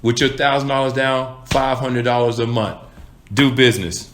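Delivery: confident salesman bringing great news; upbeat good news. Shown as a demonstration. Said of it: "Or would you go back and say".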